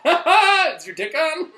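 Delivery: high, slow, laughing through the words; laughing mock question. Mocking the funny name Dickon, cracking up as he asks. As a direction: giggle out the joke name as a question.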